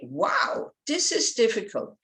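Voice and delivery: bright "Wow" then a lifted "this is difficult"; enthusiastic. Shown as a demonstration. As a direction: sound keen to take it on. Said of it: "gives you the enthusiasm".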